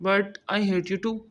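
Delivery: slow, drawn-out English taunt; slow teasing retort. Acted. Husband answering his crying wife, slow and teasing. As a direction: lean into each word, teasing.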